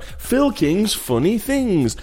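high, slow swooping title; hammy host repeating the title, stretched out; game show title announcement. Pretend.

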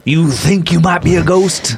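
Whoopi voice. Acted. Whoopi doubts ghost.

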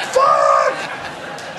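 low loud curse; realising the wrong venue, a loud low curse; shouted swear. Retold or imitated. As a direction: bark it in sudden horror. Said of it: "at that point I thought".

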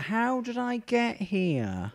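slow, drawn-out bewildered voice; dazed commuter. Pretend. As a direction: sound lost and dazed. Mock confused commuter.

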